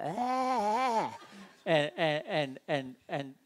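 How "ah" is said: loud high burst of frustration; mock angry shout; frustrated yell. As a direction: let out an angry cry. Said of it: "coming out of us like".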